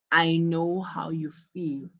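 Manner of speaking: understanding, with a gentle fall on "feel"; empathetic. Shown as a demonstration. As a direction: show you feel for them. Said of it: "wants to show empathy".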